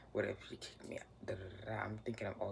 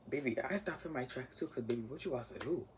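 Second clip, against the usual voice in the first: startled, raised and louder; baby what you about to do; alarmed; 4 semitones higher, 4 dB louder than usual. Retold or imitated. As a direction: freeze up in alarm. Stopped in tracks, alarmed.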